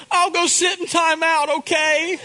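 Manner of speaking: put-on high, earnest small-girl voice; little girl confessing. Daughter confesses to daddy she thought of punching her brother, in a high earnest child voice. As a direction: sound like a contrite five-year-old.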